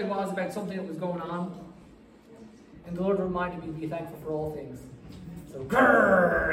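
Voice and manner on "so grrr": frustrated growl. Retold or imitated. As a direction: growl it through the teeth. Frustrated growl while driving.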